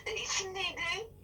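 hushed whispered question; whispering. Acted. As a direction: ask it under your breath.

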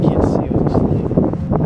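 gusty wind noise on speech; wind on mic. Real, not acted. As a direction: wind roaring over the mic. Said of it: "it's really windy right now".

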